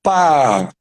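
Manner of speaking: "Pá" read as one drawn-out syllable; "Pá" held, like a child decoding; child sounding out. Retold or imitated. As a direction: imitate a beginning reader sounding out "Pá". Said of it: "ela começou a ler".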